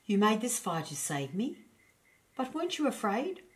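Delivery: high, wondering little voice; small hedgehog in awe. A narrator's reading. Roger's voice continues.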